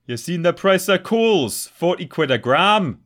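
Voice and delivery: high, loud, slow call across the alley; stranger impression. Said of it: "That's a very good impression".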